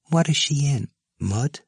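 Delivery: put-on high, soft little girl voice; a small girl asking softly; child's voice. A narrator's reading. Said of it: "said softly".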